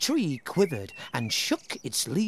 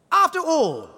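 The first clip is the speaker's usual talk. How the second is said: higher, louder haughty tree voice; vain tree; 6 dB louder than usual. Acted. The tree refusing animals, haughty and high. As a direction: sniff it out haughtily. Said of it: "it said".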